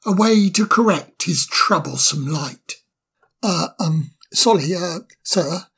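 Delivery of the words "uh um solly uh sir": hesitant. Acted. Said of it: "not quite sure how to begin".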